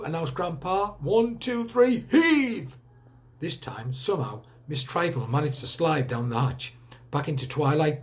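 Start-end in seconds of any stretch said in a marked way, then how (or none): 1.0-2.8 higher, louder commanding count; rally the team to heave; calling out. Acted. Grandpa calling team to pull.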